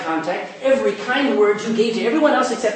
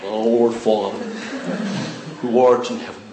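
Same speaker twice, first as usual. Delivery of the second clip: put-on childish rote prayer; 10 semitones lower than usual. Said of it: "when you're a kid".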